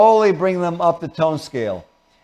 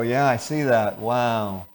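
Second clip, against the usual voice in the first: lower, softer, flat acknowledgement; a hint of bored; 6 semitones lower, 5 dB quieter, slower than usual. Shown as a demonstration. Answering the upset partner, quietly bored. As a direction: say it with no energy. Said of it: "you could also use boredom".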